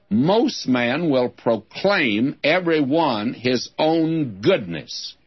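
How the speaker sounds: slow down on "goodness" to make it stand out; stress on goodness. Shown as a demonstration. Preacher reading the proverbs to the congregation, stressing "goodness". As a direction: read the verse, leaning slowly on "goodness". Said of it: "I'll emphasize the word".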